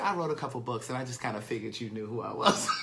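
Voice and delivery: soft giggly confession; embarrassed laughter breaking in; sheepish laugh while confessing; laughing through words. Real, not acted. Laughing at his own blunder.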